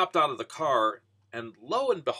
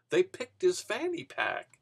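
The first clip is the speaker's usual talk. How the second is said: laughing through the punchline, slow; can't hold back a laugh at the twist; 5 semitones higher, slower than usual. Real, not acted. Punchline of the robbery story.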